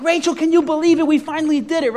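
high and loud, bursting with glee; giddy celebrating. Pretend. Pastor hugging Rachel after the revival, gleeful shout. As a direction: shout it like you just won. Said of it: "I'm like".

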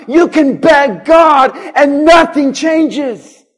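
loud, driving preacher's cadence; full-force preaching. Acted. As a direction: hammer each line home to the congregation.

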